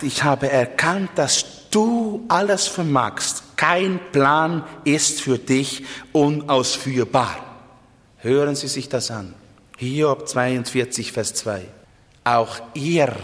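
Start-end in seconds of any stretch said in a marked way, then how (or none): 0.0-7.4 Hiob's words read slowly and with weight, "dass du alles vermagst" drawn out; solemn slow quote. Retold or imitated. Preacher to his congregation, quoting Hiob's confession, slow and solemn. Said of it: "Er sagt".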